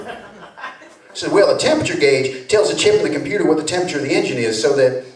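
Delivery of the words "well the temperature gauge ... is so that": fast, flustered Southern mechanic; stumbling Southern drawl; Southern mechanic caught out. Retold or imitated. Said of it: "slipped into a little Southern drawl".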